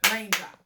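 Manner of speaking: raindrop said in two clear beats, rain-drop. Shown as a demonstration. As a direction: tap out the syllables of raindrop. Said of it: "the natural beat of that word is this".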